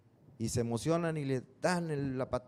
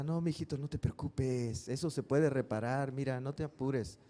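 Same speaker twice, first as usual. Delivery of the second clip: suave y lento, consolando; mamá cariñosa; 4 dB quieter than usual. Retold or imitated. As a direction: como una madre que abraza a su hijo. Mamá consuela y abraza al niño. (mamá tranquilizando al niño, voz suave y lenta)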